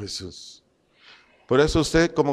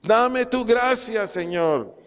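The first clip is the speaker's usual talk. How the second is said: model prayer; 4 semitones higher than usual. Shown as a demonstration. Preacher models a prayer for the congregation, earnest pleading. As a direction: pray it with fervent longing. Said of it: "Dígale".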